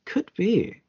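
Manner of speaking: hushed echo of the guess; whispering. Real, not acted. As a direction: whisper it back conspiratorially. Echoing the ominous guess.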